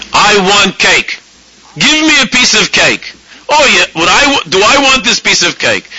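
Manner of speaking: high, slow, whiny demand; demanding inner craving. Pretend. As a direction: plead for cake like a greedy child. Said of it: "That's how you hear your body asking".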